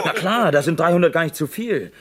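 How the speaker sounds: chuckling while he talks; laughing. Acted. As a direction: laughs at his own grim joke. Joking about the danger.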